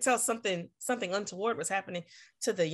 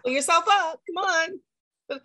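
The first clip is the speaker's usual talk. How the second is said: mock smug; 9 semitones higher, 4 dB louder, slower than usual. Mocking a smug bystander.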